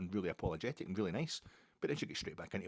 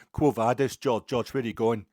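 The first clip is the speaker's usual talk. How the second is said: loud shouting, building higher; loud shouting heckle that climbs higher at the end; heckler's yell; 4 semitones higher, 15 dB louder than usual. Retold or imitated. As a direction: heckle the screen, getting wilder. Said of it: "he just started going".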